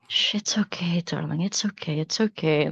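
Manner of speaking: hushed, tender comfort; soothing. Acted. Adventurer hushing the frightened child under a coat, tenderly. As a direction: shush her gently, darling.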